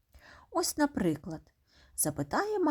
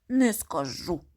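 whispered refusal; 3 semitones lower, slower than usual. Acted. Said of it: "відповідає одне й те ж".

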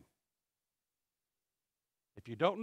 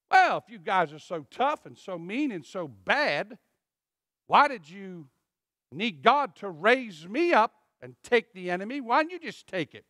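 mild mock retort. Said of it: "what Gideon would like to have said".

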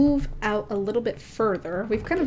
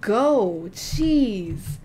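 annoyed wolf voice; 2 semitones higher, 4 dB louder, much slower than usual. Pretend. Voicing annoyed wolf Terra.

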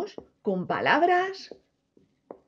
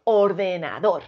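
or-de-na-DÓR, rising at the end; stress on last syllable; 5 semitones lower than usual. Shown as a demonstration. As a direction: lower "ordenador", accent on DOR. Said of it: "la forma correcta de pronunciar".

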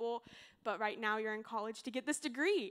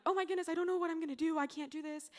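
higher, hurried mock panic; retold freak-out; 5 semitones higher, faster than usual. Student retelling her finals-season meltdown, mock freaking out. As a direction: rush it out in light, raised-pitch panic. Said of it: "freaking out".

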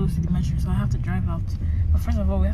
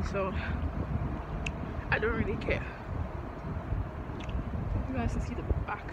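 quiet; 8 dB quieter than usual. Real, not acted. Filming quietly inside empty school.

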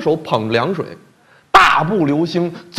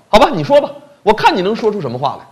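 angry dare; 6 semitones higher, 3 dB louder, faster than usual. Acted. King, furious, dares him.

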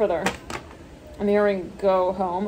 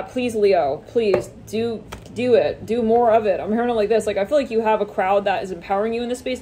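ordinary talk, nothing marked

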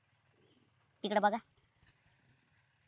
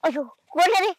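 वेदनेने ओरड; 8 semitones higher, 6 dB louder than usual. Acted. पडल्यावर ओरडतो.

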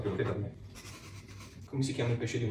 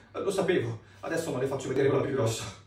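laughing; 2 semitones higher, 3 dB louder than usual. Acted. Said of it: "Il dottore".

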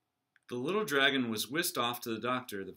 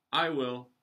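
a bit louder, eager volunteer; eager declaration; 2 semitones higher, 5 dB louder than usual. Acted. Young dragon volunteering to light candles, eager. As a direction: pipe up proudly. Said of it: "declared Crispin".

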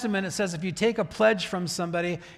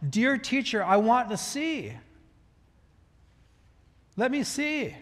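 higher-pitched, heartfelt plea; personal plea; 5 semitones higher than usual. Acted. Blind Bartimaeus appeals to his dear teacher, personal plea. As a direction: plead personally, pitch lifted, drawing out the wish. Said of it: "Now it's getting personal".

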